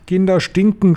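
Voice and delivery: high, disgusted witch cry; shrieking. A narrator's reading. Grand High Witch declaring her disgust, high shriek. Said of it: "schrie sie".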